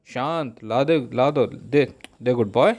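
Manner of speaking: calm animal-tamer coaxing; slow soothing coax. Acted. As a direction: talk him down gently, slowly. Coaxing armed monkey to calm.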